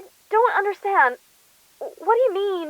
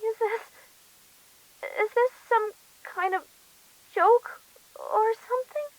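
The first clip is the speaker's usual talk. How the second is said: frightened; 4 semitones higher, 3 dB quieter than usual. Acted. Victim frightened, voice shaking.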